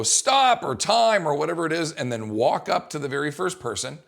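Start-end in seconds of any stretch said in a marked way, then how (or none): 0.0-1.3 loud high barked stop call; sharp call to stop. Shown as a demonstration. Coach calling time on the whole class, loud. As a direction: cut everyone off at once. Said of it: "what you wanna do is go".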